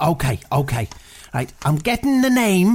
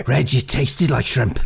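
laughing through the quote; 7 semitones lower than usual. Retold or imitated. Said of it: "he just said to me".

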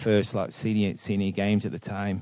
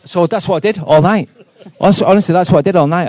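still laughing; 10 semitones higher, 12 dB louder, faster than usual. Real, not acted. Laughing after the Cantona story.

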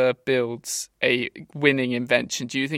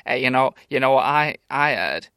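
gossip; 2 semitones lower than usual. Acted. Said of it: "the sort of".

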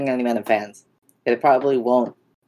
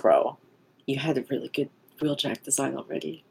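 exasperated rant; 2 semitones higher than usual. Retold or imitated. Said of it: "I'm just like".

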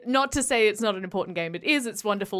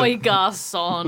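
calling out; 2 semitones lower, 4 dB louder, slower than usual. Pretend. Calling waiter, Aussie style.

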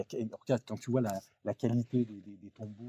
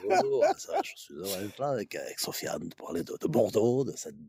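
Alain Juppé impression; 2 semitones lower than usual. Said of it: "hein, monsieur Juppé".

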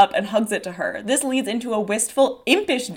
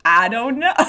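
New York attempt slipping into Southern; Dora's line with a stray Southern twang; accidental Southern accent; 4 dB louder than usual. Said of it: "can't do the New York accent Southern".

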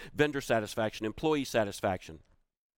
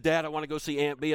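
put-on insistent kid; 5 semitones higher than usual. Son insisting, repeated plea.

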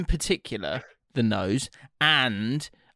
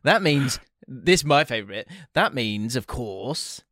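playful sponsor read, lightly hammed. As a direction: read the ad copy with a grin. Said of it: "Now, let me read".

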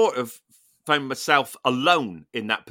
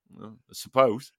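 unimpressed; 5 semitones lower than usual. Retold or imitated. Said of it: "like that".

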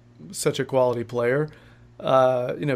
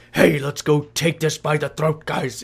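lightly voiced cartoon dog; goofy hint of a cartoon dog. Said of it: "I just made him kinda talk like a cartoon dog".

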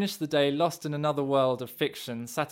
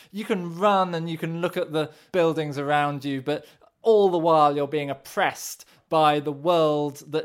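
cartoon villain; 2 semitones higher, 4 dB louder than usual. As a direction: sneer it like a cartoon baddie. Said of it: "do you want me to do a cartoon villain impression of the listener".

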